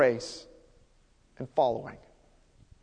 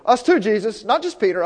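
lightly acted eager agreement, a bit louder; disciples chiming in; 3 semitones higher, 5 dB louder than usual. Other disciples ganging in after Peter, lightly insistent. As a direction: jump in insisting you belong too. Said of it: "imagine them all ganging in".

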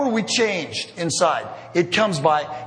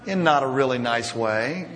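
sheepish chuckle; 3 semitones lower than usual. Real, not acted. Admitting road rage, chuckling.

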